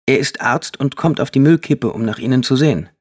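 put-on boy speaking up to his mother; boy's voice. A narrator's reading. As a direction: voice the son, bright and keen. Jay continues in child voice.

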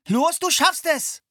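slow, loud, high encouragement; calling encouragement. A narrator's reading. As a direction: cheer her on as she struggles. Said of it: "rief Philipp".

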